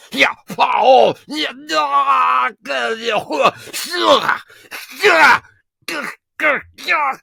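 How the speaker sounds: hammed-up sword-fight shouts and grunts; battle cries while swinging an axe. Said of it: "do the fisticuffs and sword wielding".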